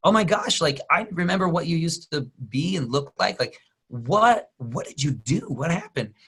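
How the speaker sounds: lightly voiced astonished Kevin Hart; mock amazement, pitch up; Kevin Hart amazed. Kevin Hart stunned at the transformed Rock, mildly mock amazed. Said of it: "And he goes".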